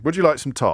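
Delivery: "toast" said as "tarst"; posh toast vowel. Acted. Presenter teasing a caller with the story's line, "toast" as "tarst". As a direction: offer it with a long AH in "toast". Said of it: "Who says toast?".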